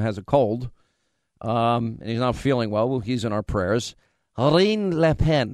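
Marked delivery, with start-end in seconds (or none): 4.4-5.5 "Marine Le Pen" said slowly; second try at French. Shown as a demonstration. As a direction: slows "Marine Le Pen" down, trying again. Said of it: "How would you say it?".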